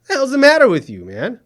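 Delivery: what is wrong with you, blowing up; exasperated outburst. Acted. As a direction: anchor losing patience with his clueless reporter, exasperated shout. Anchor exasperated at reporter.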